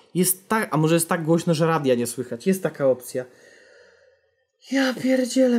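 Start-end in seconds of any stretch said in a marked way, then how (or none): 4.7-5.6 high, startled cry of fright. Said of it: "prawie na zawał padłem".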